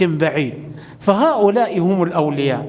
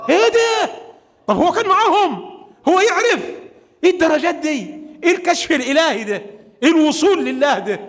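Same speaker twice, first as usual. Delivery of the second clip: amazed exclaim; 8 semitones higher, faster than usual. Real, not acted. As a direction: marvel aloud at his knowledge. (دهشة عالية وصوت مرتفع)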